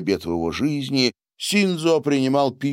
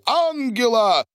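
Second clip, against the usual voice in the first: much higher shout of her name; 14 semitones higher than usual. A narrator's reading. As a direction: call her name across the table. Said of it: "выкрикнул Борис".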